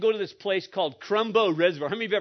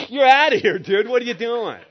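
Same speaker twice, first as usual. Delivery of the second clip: mocking friends' reaction; 2 semitones higher, 6 dB louder than usual. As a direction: imitate a buddy loudly ditching him. Imitating son's friends rejecting him.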